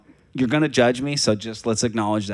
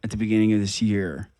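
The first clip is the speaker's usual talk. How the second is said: talking while chewing gum; 3 semitones lower than usual. Real, not acted. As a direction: gum in the mouth. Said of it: "I've had gum in my mouth this whole time".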